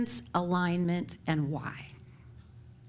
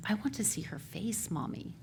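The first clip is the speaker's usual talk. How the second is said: put-on hushed child quote; 7 dB quieter than usual. Four-year-old son's words retold.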